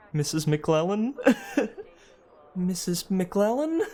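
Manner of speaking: calling out like a little robot. Retold or imitated. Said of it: "from my little robot voice".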